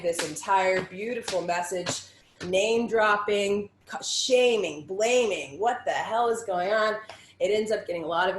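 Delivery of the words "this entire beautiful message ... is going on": loud, slow, heated rant; angry. Real, not acted. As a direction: let the anger boil over. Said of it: "just angry type".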